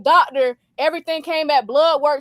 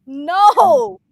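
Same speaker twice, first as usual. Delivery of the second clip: mock crying child; 3 semitones higher, 6 dB louder, much slower than usual. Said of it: "She was crying".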